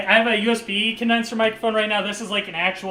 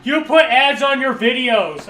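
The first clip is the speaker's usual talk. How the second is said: slow, louder whiny accusation of "put"; mock accusing troll; 4 semitones higher, 5 dB louder, slower than usual. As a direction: sneer "You put ads" slowly, stressing "put". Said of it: "He's just like".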